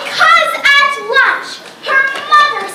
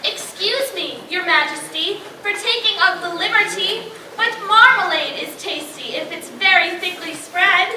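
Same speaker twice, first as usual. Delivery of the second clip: softer, lower bashful voice; timid dairymaid; 5 semitones lower, 6 dB quieter than usual. Acted. Dairymaid to the queen, softly and shy. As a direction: say it shyly, softly.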